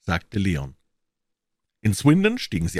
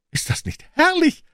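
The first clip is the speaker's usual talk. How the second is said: almost reverent; 4 dB louder than usual. A narrator's reading. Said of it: "sagte Mrs. Jones fast ehrfürchtig".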